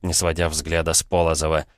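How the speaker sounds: ordinary delivery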